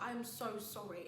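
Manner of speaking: slow, soft apology; re-enacting an embarrassed apology; apologetic. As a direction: apologise quietly, drawing it out. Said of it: "I was apologizing to the staff".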